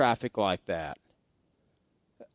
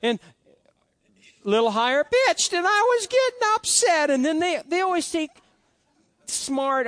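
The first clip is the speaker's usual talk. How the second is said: imitating himself getting worked up, pitch climbing high; higher-pitched upset voice; 7 semitones higher than usual. Shown as a demonstration. Preacher showing how he reacts when upset, voice rising higher and higher. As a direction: let the voice climb as the upset builds. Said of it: "my voice started to get like this".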